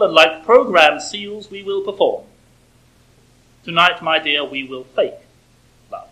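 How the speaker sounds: measured, lightly declaimed satirical verse; understated poetry reading with deliberate pauses; poem recital. Acted. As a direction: recite the poem deliberately, pausing between lines. Reads a satirical poem aloud.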